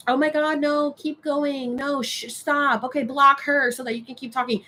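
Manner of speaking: high-pitched mimicry of simpering fans; fawning defenders. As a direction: imitate women fussing over a man they admire. Mimics women defending the man.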